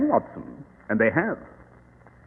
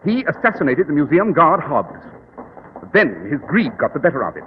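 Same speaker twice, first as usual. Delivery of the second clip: calm, superior detective explaining; Sherlock Holmes; 3 semitones higher than usual. Acted.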